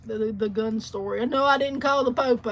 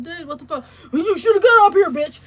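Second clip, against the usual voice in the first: laughing through a mock yelled insult; 5 semitones higher, 8 dB louder than usual. Retelling the driver's insult, laughing through a mock yell. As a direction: shout it out while cracking up.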